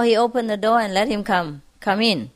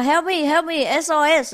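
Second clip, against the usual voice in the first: mock cry for help; 6 semitones higher than usual. Storyteller as drowning miser, mock calling for help. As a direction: call out like someone drowning, lightly acted. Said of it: "he was shouting for help".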